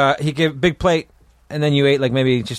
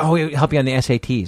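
normal talking voice

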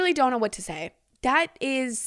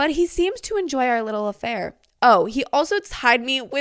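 plain

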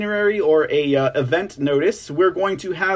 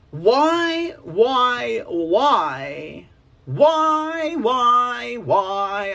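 very slow, drawn-out whys, fake near-tearful whine; 4 semitones higher than usual. Questioning why a candidate was endorsed: mock about to cry. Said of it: "I sound like I'm about to cry".

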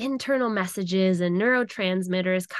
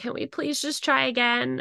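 mock imploring, high-pitched, begging tone; 5 semitones higher than usual. Retelling how she pleaded with Sebastian, retelling her begging. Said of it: "I was like begging him".

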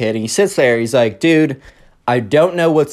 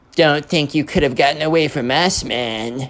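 put-on emo kid voice, read-out delivery. Telling a story, the speaker reads a letter aloud in the emo kid voice. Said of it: "I'm going to try and read in the emo kid voice".

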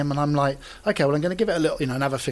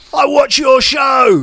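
unbelievably loud, booming, high-pitched, shrill voice; 10 semitones higher, 12 dB louder than usual. Recalling a guy who says he watches the show, imitating him unbelievably loud. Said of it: "this guy is unbelievably loud".

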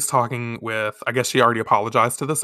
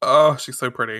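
ordinary talk

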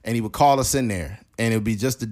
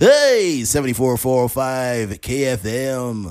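put-on radio announcer voice, much slower; 4 dB louder than usual. Explaining how the radio guy talks, radio DJ voice. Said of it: "the radio guy is like".

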